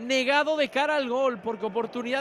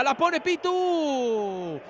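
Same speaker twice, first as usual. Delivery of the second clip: drawn-out commentary; much slower than usual. Acted. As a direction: shout it out slowly. Drawn-out call of the cross.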